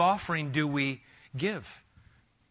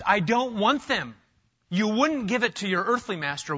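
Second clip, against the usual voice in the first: louder, higher rebuke from God; scene: Malachi voicing God rebuking Judah's lame offerings, indignant; 7 semitones higher, 4 dB louder than usual. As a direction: voice God rejecting their offering in anger. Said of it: "the way he deals with Judah".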